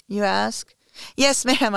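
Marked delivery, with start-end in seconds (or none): 1.2-1.8 high, loud, strained answer; choked-out reply. Acted. Submissive answering before the last stroke, choked-out reply. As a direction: force it out through tears. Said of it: "I choke out".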